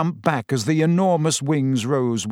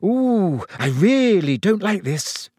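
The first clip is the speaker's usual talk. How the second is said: put-on higher, anxious girl's voice, fretting; nervous muttering; 4 semitones higher than usual. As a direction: fret under her breath, scared of the height. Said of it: "He could hear her muttering".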